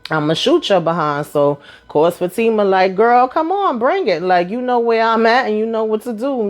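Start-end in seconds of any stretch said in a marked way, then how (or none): 3.0-6.5 sassy imitated dare on the phone; daring challenge. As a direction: dare her to come and try it. Retold phone fight, daring Karen.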